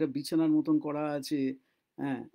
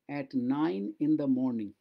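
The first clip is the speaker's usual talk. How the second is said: each word drawn out slowly for learners; slow model reading; 4 semitones lower, much slower than usual. Shown as a demonstration. Teacher to Bengali students, slow careful reading. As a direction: read it slowly so students can follow. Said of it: "teacher models English phrase slowly".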